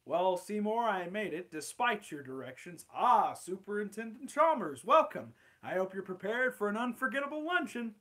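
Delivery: lightly voiced Chalmers and Skinner; Steamed Hams characters. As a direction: act out the Simpsons scene, barely changing voice. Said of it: "I'll do the entire Steamed Ham script".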